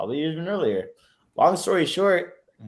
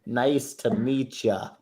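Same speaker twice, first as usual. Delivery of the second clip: put-on slow, easy Midwestern accent; 3 semitones lower, slower than usual. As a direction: greet them in a friendly Midwestern accent. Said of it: "As he says in the Midwestern accent".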